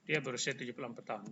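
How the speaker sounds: fast, run together; quick throwaway Indonesian; quick aside. Shown as a demonstration. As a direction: rattle off "dia berusia tujuh puluh empat tahun". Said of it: "Bukan cara omongnya".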